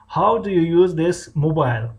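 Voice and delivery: slow, emphatic example question; careful language-lesson enunciation; teacher modelling. Shown as a demonstration. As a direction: give learners each word slowly.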